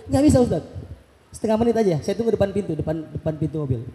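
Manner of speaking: suara ajudan yang menolak, lebih tinggi; menirukan ajudan. Retold or imitated. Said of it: "kata ajudannya". (ajudan menolak permintaan ustadz dengan nada tinggi)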